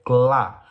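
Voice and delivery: "clá" slow and emphatic, L fully sounded; clear L demonstration. Shown as a demonstration. Teacher shows pupils the new sound, "clá" drawn out. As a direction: say "clá" drawn out, tongue to the palate on the L. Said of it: "sua língua vai tocar lá em cima".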